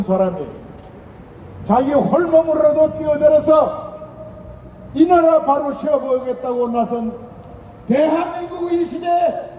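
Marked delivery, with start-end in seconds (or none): 1.6-9.5 high, shouted campaign climax; roaring rallying speech. Real, not acted. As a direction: rouse the crowd to vote. (우렁차게 외치는 유세 연설)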